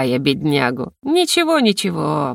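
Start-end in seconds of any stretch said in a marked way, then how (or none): 1.0-1.6 a teasing high «Ничего»; high gloating. Retold or imitated. Heroine gloating over the rector, high-pitched teasing. 1.6-2.3 «ничего» dropped low with a settling fall; a satisfied low «ничего». Retold or imitated. Heroine gloating over the rector, low satisfied fall.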